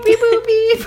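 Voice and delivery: high beeping robot voice; toy robot voice. Pretend. Mocking tech crowd.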